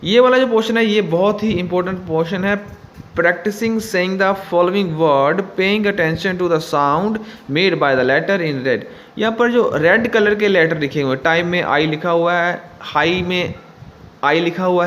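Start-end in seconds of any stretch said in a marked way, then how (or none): 3.1-8.9 slow, careful reading of the instruction; slow textbook reading. Acted. Teacher reading the book to students, slow and careful. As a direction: read it out slowly for the class.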